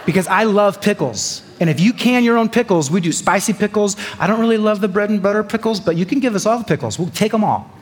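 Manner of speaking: bubbling over about pickles; excited gushing. Real, not acted. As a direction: rave about pickles like a fan.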